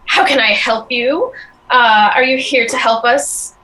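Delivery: a hint of a smarmy goblin charming the stranger. Goblin to Cloud, lightly voiced and charming. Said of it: "smiles in a very charming way".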